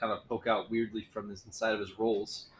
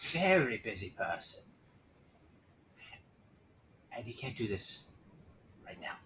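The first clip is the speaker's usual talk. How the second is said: whispery envoy voice. Acted.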